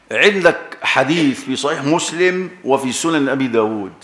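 ordinary delivery

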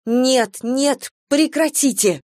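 high, breathless cry of stop; breathless exclamation. A narrator's reading. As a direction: gasp it out, begging him to stop. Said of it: "воскликнула Батшеба, чуть не задыхаясь". (задыхаясь, высоко: нет, нет, прекратите)

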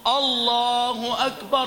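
slow chanted "الله أكبر" with a dark, thick first "أ"; wrongly heavy hamza. Shown as a demonstration. Teacher repeats the second mistake, heavy hamza. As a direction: thicken the opening vowel of "الله" and draw it out. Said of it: "تفخيم الهمزة".

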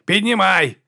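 high, ringing rowing call; rhythmic call. Acted. Erik calling the oar stroke from the tiller, high ringing call. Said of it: "гукнув Ерік".

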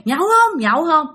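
ghost calling. Retold or imitated. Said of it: "nghe thằng chả cười".

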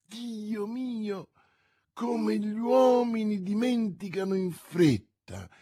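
mild exasperated cry to heaven; a hint of reproachful dismay; exasperated exclaim. A narrator's reading. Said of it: "esclamò la dama alzando gli occhi al cielo".

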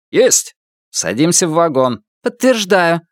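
brisk officers answering the radio. Acted.

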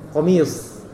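"Qamis" ending in a thick s, lips not pushed out; heavy final s in "Qamis" with relaxed lips; unrounded sod. Shown as a demonstration. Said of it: "nggak usah memonyongkan bibir". ("Qamis" tanpa memonyongkan bibir)

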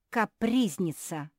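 loud slow spat-out insult; angry insult. Acted. Beatrice insulting the singer, loud and slow. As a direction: drag the word out in contempt. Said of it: "продолжала Беатриса".

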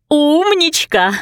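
a high, slow, proud cheer; encouraging cheer. A narrator's reading. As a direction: cheer her on like a proud fan. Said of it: "ободряюще крикнула Люсинда".

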